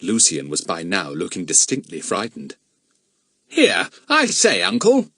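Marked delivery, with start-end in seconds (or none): 3.5-5.1 put-on very high, slow boyish protest; nervous nephew. Lucian objecting to his uncle, high and nervous. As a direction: pipe up timidly but high.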